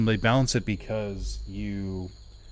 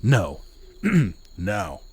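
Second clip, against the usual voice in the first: warming up an Australian "No"; tentative Australian-accent practice. Shown as a demonstration. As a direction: try out "No" in a put-on Aussie accent. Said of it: "let me get my Australian accent".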